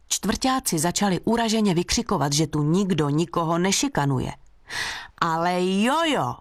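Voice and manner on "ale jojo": a slow, drawn-out mock exclamation; read-aloud exclamation, only lightly raised; exclaiming loudly. A narrator's reading. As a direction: protest it, stretching each syllable. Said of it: "vykřikla jsem nahlas".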